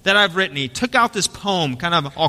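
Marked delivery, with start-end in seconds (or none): 0.0-0.6 a hint of a shy, proud old baker; eager baker. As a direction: start high and earnest, like a proud amateur poet. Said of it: "He said, he said".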